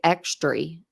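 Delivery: "extry" ending in an ee sound; grandmother's "extry" pronunciation. Retold or imitated. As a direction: say extra as "extry". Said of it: "My grandmother used to say".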